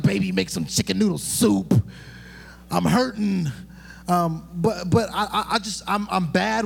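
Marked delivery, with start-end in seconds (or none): 0.0-3.5 put-on whiny sick baby. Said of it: "I'm a huge baby".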